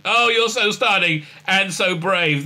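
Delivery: slow, sarcastic gushing praise; mocking sappy compliment. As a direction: ham up fake admiration. Mocking quote of president.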